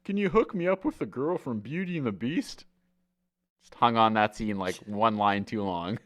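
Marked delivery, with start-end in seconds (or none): 0.0-2.7 high dopey request; hammed-up high dumb-guy voice; dim Joey. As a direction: ask eagerly like a clueless sitcom character. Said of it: "he goes".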